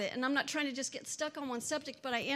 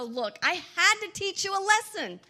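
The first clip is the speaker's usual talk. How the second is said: mock harsh parent; 7 semitones higher, 6 dB louder than usual. Mock cruel parent to child.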